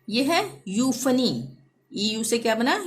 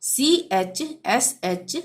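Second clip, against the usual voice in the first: slow spelling; 2 semitones higher, much slower than usual. Shown as a demonstration. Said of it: "जब किसी शब्द में".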